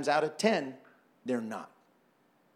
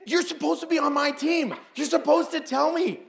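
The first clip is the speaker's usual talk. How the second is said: higher, laughing complaint to a teammate; laughing mock protest; 12 semitones higher, 3 dB louder than usual. Real, not acted. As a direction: playfully accuse your teammate.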